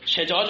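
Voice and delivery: شجاج said as shejaj, short e after the sh; شجاج with a clear kasra on the first letter, she-jaj; with kasra on shin. Shown as a demonstration. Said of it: "به کسر شین بخون".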